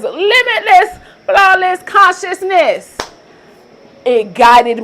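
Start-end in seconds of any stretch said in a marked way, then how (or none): 0.0-3.0 higher, slow sing-song catchphrase; a light imitation of a manifestation coach's catchphrase, higher; Manifesting with Kimberly. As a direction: lift the pitch and stretch it like her signature line. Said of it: "Like Manifesting with Kimberly says".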